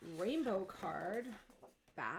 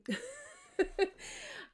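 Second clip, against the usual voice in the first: breathy laugh; 11 semitones higher, 4 dB louder than usual. Real, not acted. Laughs about her mom.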